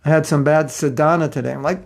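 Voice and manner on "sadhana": "sadhana" as sa-DAA-na, stressed in the middle; South American "sadhana". Retold or imitated. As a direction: lengthen the second syllable of "sadhana". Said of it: "second syllable of words is commonly longer".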